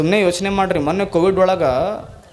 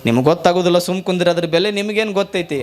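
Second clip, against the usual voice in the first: mildly louder scolding repeat; lightly raised mock retort; dismissive brush-off, a bit louder; faster than usual. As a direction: push the dismissal a little harder. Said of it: "ಅಂದವ ನಾನು".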